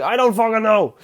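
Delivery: high-pitched, exasperated mock outburst; hammed-up frustrated cry; acted exasperation. Acted quarrel between confused lovers.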